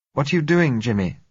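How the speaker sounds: put-on high, anxious young woman; frightened girl voice. A narrator's reading. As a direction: voice a scared girl pleading. Frightened girl's voice.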